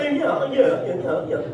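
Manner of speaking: lightly mocking posh-boy chatter; mock posh Tarquin. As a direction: mimic a string of braying yeses. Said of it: "these little Tarquin wankers".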